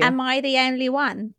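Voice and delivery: a light Essex accent; lightly Essex. Shown as a demonstration. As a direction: try it in Essex. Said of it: "something you could say to Cassie".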